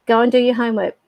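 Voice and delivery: mild, matter-of-fact telling-off; retold parent's first reminder; parental order. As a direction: tell a child to get on with it. Parent repeats order to child.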